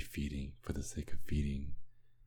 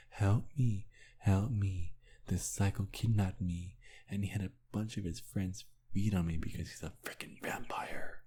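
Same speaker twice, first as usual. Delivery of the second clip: higher, whiny imitation of a panicked victim; mock pleading captive; 5 semitones higher than usual. Vampire mocking his captive's cries for help, in a higher whiny voice. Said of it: "I can imagine you telling".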